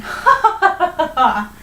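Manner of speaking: high, loud hammed-up laugh. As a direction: punch out a staged ha-ha-ha. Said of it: "started laughing".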